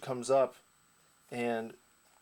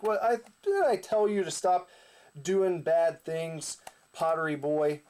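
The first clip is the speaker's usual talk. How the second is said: scolding; 4 semitones higher than usual. Retold or imitated. Hero scolds villain.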